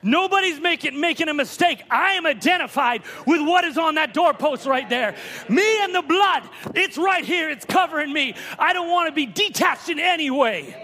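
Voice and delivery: fervent preaching. Real, not acted. Preacher declaring himself identified with the blood, fervent preaching. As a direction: preach it with rising conviction.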